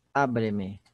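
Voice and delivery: "Abre-me" stressed on the A, low falling end; stress on first syllable. Shown as a demonstration. Teacher answering how the joined word sounds, "Abre-me" stressed on A. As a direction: keep the weight on A in "Abre-me", last two syllables weak. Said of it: "a sílaba tônica é o A".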